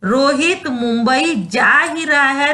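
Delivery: "जा ही" weighted, slow; slow, emphasise जा ही; stress on जा. Shown as a demonstration. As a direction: lean on the verb जा. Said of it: "तो जाने पे बल पड़ा".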